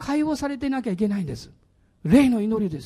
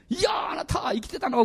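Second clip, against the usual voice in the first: overdone delight. Shown as a demonstration. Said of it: "ちょっとオーバーなぐらいにね、".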